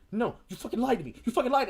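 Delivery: high, loud, betrayed yell; rising into a hurt, furious shout; angry accusation. Retold or imitated. Colleen accusing him of lying, a high angry yell. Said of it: "It's like".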